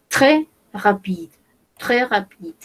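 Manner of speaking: "très" said "tré" with no s sound; très sin la s, "tré"; silent s in très. Shown as a demonstration. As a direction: drop the s of "très", say "tré rapide". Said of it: "Acá no pronunciamos la S".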